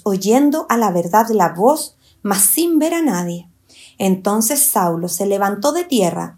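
measured, emphatic Bible reading; scripture reading. Acted. Teacher reads Saulo's fall to listeners, emphatic scripture reading. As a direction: read the verse out with deliberate weight.

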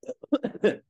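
sudden harsh coughing; coughing fit. Real, not acted. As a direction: cough hard, can't stop. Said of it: "咳込んでます。".

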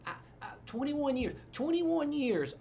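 high-pitched, drawn-out mock indignation; exaggerated protest. Husband objecting to time apart from wife, exaggerated protest.

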